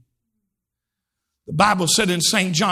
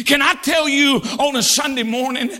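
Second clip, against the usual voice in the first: preaching at full force; 3 semitones higher than usual. Acted. Preacher encouraging congregation in grief: full preaching. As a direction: drive it to a climax.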